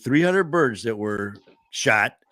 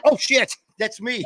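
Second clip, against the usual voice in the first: surprised; 9 semitones higher than usual. Retold or imitated. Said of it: "and you're like".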